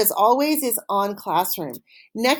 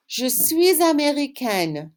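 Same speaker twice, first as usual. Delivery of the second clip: slow model answer; 4 semitones higher, slower than usual. Shown as a demonstration. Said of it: "boy or a girl".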